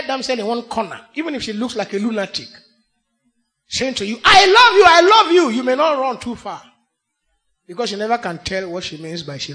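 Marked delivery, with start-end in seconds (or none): 4.2-5.5 loud, eager I love you, much higher; eager declaration of love. Retold or imitated. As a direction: call it out to him, pleading. Fair damsel declaring love.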